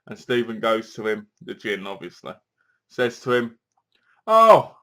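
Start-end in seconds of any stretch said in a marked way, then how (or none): 4.3-4.8 loud, high exclaimed "oh"; mock "oh". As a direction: burst out with a sudden "oh". Voices the gin speaking to Sam.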